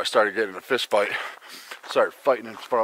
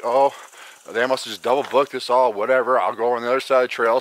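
mock polite; 3 dB louder than usual. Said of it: "I was polite as hell".

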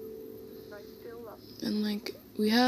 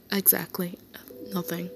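soft whisper; 6 dB quieter than usual. Acted. Teasing partner about kisses.

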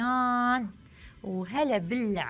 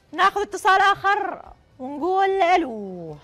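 booming prize announcer; 6 semitones higher, 6 dB louder than usual. Acted. Host calls the next caller.

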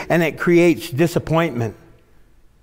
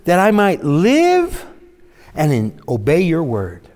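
pleading prayer. Retold or imitated. Psalmist pleading with God, slowed. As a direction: pray it gently. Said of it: "He's saying".

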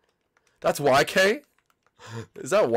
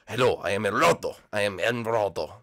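lightly put-on lower voice, a hint of a Hispanic accent; Emeraldo voice; 5 semitones lower than usual. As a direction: play a friend in a mock lower voice. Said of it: "Emeraldo probably talks like this".

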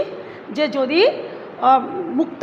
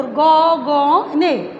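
syllable by syllable; 4 dB louder, much slower than usual. Shown as a demonstration. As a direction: say গ, গ, নে as separate open beats. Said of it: "দেখো এটা মুক্তাক্ষর". (অক্ষর আলাদা করে উচ্চারণ)

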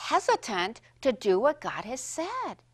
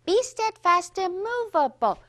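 leading recitation; 3 semitones higher, 6 dB louder than usual. Shown as a demonstration. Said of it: "teacher leads children's recitation".

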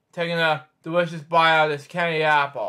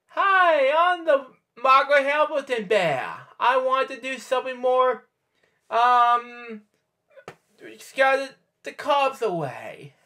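much higher, hammed-up wicked witch voice; Margaret Hamilton witch; 8 semitones higher than usual. Reader ad-libbing a witch bear, high hammed-up voice. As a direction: play a silly witch bear, pitched way up. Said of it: "Margaret Hamilton, ladies and gentlemen".

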